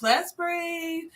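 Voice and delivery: slow, soothing coaching to breathe; calming a child. Retold or imitated. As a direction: talk a crying boy down gently and slowly. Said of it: "I was like".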